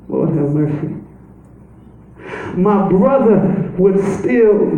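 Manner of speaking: mild pleading lament, not real tears; understated tearful prayer; Mary's crying plea. Acted. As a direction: plead with the Lord, near tears. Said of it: "She's crying".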